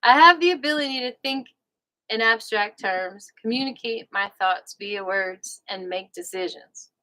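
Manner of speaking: light Southern reading voice; a touch of the American South on each phrase; Southern accent. Real, not acted. Host channels the book's author reading aloud, light Southern accent. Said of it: "might be from the South, so I'm, like, channeling him".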